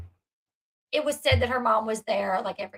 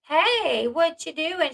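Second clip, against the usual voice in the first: higher, put-on sweet voice; sweet-talk voice change; 4 semitones higher, much slower than usual. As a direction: imitate a dad suddenly turning sweet. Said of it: "like, voice changes".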